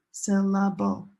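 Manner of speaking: "syllable" in three evenly timed beats; equal-length syllables. Shown as a demonstration. Teacher on other languages' timing, evenly spaced "syllable". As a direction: give each part of "syllable" the same time. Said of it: "gets the same amount of time".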